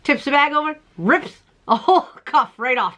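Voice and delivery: ordinary talk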